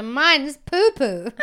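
milk the silly punchline very slowly; hammed-up comic delivery, near laughing; Jerry Seinfeld.

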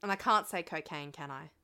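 put-on Australian accent. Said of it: "I don't know why I'm Australian".

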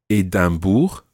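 "Edinburgh" as French "Édimbourg", nasal middle, French R; French version. Shown as a demonstration. Teacher giving French town names, "Edinburgh" pronounced as French Édimbourg. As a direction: say "Edinburgh" the French way, like "ay-dam-boor". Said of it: "there are French versions of certain towns".

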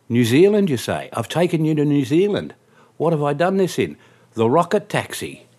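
high, loud disbelieving outburst; loud incredulity. Retold or imitated. Cab driver to a deluded passenger, incredulous. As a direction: throw the absurd claim back, loudly.

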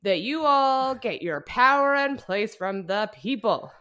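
put-on loud, high, slow drunken orator; drunk speech. Vice president drunkenly ranting his inauguration speech, loud and slurry. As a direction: bellow it out like a plastered vice president. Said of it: "can I give you a little of the speech".

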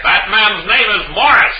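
high, grand stage swami; hammy mystic showman. Acted. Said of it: "We have the Swami up here on the stage".

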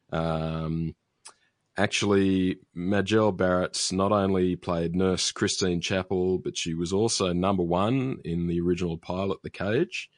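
know-it-all nerd voice, lightly done; a hint of the pedantic nerd, correcting. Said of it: "break out my best nerd voice".

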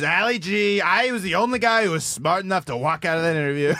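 lightly voiced boastful politician; hint of a self-congratulating politician; Trump. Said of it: "there's a Trump video of him commenting on it".

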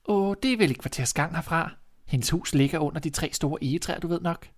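put-on a trusting girl explaining the way; little girl voice. Girl answers.

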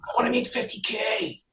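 imitating a client's wish, lightly; mock client voice. Client quoted wanting fifty K.

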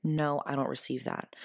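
calm, kind refusal; polite, even boundary; kindly. Shown as a demonstration. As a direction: turn it down gently. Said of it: "You can very kindly say".

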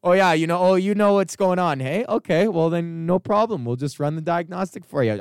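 hammed-up condescending mechanic; mocking mechanics. Mechanics talking down to him, smug and mocking. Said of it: "the mechanics who worked there were probably like".

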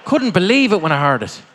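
loud, high comedian onstage; live stage delivery. Acted. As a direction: project to the room and wrap up the set. Live stand-up set over crowd.

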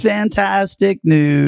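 slow, drawn-out Trump boast; Trump impression. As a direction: stretch out fantastic like Trump.

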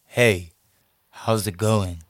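put-on low, mask-for-mask guy on the phone; low-pitched macho phone greeting; masculine guy voice. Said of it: "let me do the real voice".

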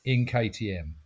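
exasperated outburst; ranting. Real, not acted. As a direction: launch into an indignant rant. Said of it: "have a little bit of a controversial rant".

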